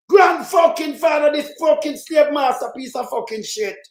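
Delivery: furious curse. Real, not acted. Vlogger cursing the slave-master ancestor, furious.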